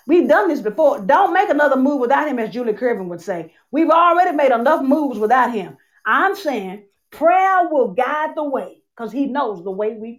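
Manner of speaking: impassioned preacher voice; preaching. Acted. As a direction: preach it with rising fervor. Preaching a sermon.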